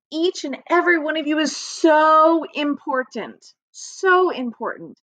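warm praise. Real, not acted. Teacher praising young pupils.

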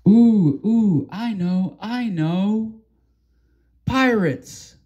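high, bursting to answer; like a kid with the answer; eager guess. Acted. An eager friend guessing who did it, bursting excited.

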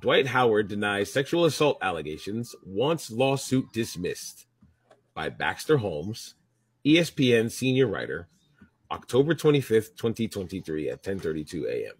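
news anchor read; reporter voice. Acted. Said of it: "He can give you his reporter voice".

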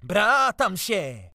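loud, high, drawn-out whine; whining yelp. A narrator's reading. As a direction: wail it slowly like a whimper. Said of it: "zaskomlał miętus".

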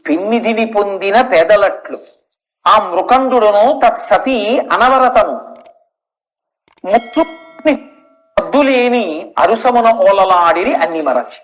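measured verse recitation with pauses; poem recital. Acted. Preacher recites verse to his audience, measured.

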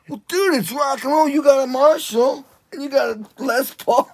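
high, loud defiant comeback; loud retort. Retold or imitated. Drummer answering the guitarist, a loud high defiant comeback. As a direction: fire it back with attitude.

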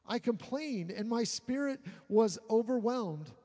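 preacher reading the psalm aloud to the congregation, earnest; scripture reading. Acted. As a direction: read it like a lament from the pulpit.

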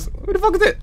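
high, shocked cry; startled shriek. Real, not acted. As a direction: caught off guard, yelp it. Sudden figure in the game.

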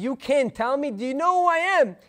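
acted indignant demand, climbing in pitch. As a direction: play a ruler losing his temper, in a retelling. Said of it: "he's even more angry now".

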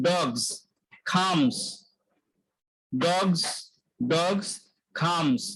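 ডগস and খামস ending in a buzzed Z; careful single words, ডগস and খামস, with "zz" endings; demonstrating final Z. Shown as a demonstration. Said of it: "উচ্চারণ জ আসছে".

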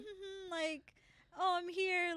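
high-pitched clueless wanderer, lightly mocked; naive newcomer. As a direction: act out your own innocent arrival. Acting her naive wandering self.

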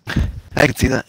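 breathy laugh through the words, slow. Real, not acted. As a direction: chuckle it out, amused. Laughing at friend's Raiders pick.

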